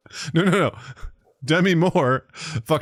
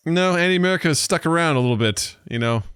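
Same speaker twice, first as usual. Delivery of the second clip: Andy America accent. Shown as a demonstration. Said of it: "I'm slipping right back into it".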